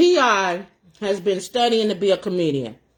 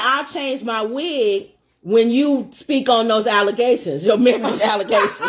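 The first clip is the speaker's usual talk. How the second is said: laughing. Retold or imitated. Retelling MC's comeback, laughing.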